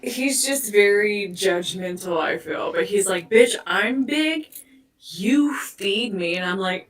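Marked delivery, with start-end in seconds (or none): 3.3-6.3 mock English accent. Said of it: "English accent".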